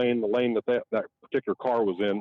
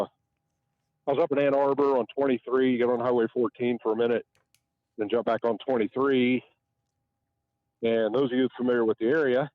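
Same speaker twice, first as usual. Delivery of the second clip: out of breath. Real, not acted. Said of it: "sorry, I'm out of breath".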